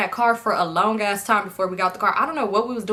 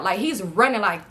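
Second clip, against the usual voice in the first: usual speaking voice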